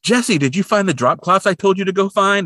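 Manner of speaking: high-pitched mom voice; mock mother checking on an errand; imitated nagging mother. Mother voiced calling to her daughter.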